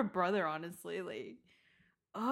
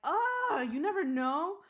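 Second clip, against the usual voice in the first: high, loud mock outcry; mock protest; 8 semitones higher, 5 dB louder, slower than usual. Daughter answering mom about the parrot, mock protest. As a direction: pitch it way up in comic protest. Mock reply to mom's morbid remark.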